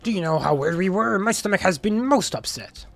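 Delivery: lightly voiced pirate crew banter; game character voices. Player voicing the shipwrecked crew's squabbles, lightly hammed-up. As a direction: read the dialogue with hammed-up flair.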